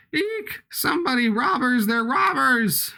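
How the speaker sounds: high-pitched mock panic, drawn out at the end; panicked cry. Game character cries out about robbers.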